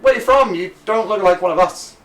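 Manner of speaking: high, loud nosy voice; nosy local. Acted.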